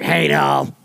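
a light hint of a raspy older Southern clerk; mimicking the old lady at the gas station who knew grandma. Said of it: "literally sound like that".

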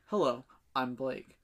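slow, low self-introduction; lightly put-on smooth greeting, drawn out; rehearsed suave introduction. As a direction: practise a slow, deep hello. Rehearsing a second, weightier introduction.

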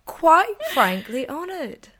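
slow, high, hammed-up British; loud mock-British declaration; British accent. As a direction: stretch it out in a showy British accent. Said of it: "when I've spoken in my British accent".

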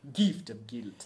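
"Gift of Guilt" in a mock French accent. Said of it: "comes out like".

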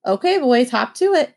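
a hint of barking orders; lightly voiced drill sergeant mom. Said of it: "Mom deployed her drill sergeant voice".

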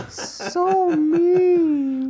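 high squealing laugh through the words. Real, not acted. Friend's harsh remark.

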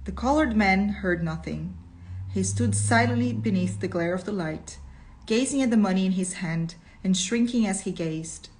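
measured, expressive storytelling; deliberate reader's voice with lifted key words; story narration. A narrator's reading. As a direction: read it out as dramatic narration.

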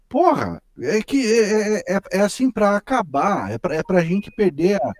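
high-pitched exasperated outburst; fed-up, worked-up complaint. Real, not acted. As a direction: burst out, then stumble on in frustration. Exasperated rant at the politician's act.

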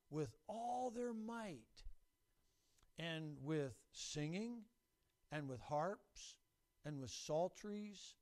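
very slow, measured Bible reading; scripture reading. Acted. Preacher reading Chronicles to the church, slow and measured. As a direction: read each phrase slowly with weight.

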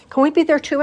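put-on high, loud eager little girl; child's plea. A narrator's reading. A daughter begs her mum to join in, high and loud. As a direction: beg it like a small girl.

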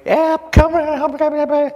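mother screaming for Dad as the fire hits; mother yelling in panic. Retold or imitated. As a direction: shout for her husband to hurry back. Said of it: "Mother is yelling and screaming".

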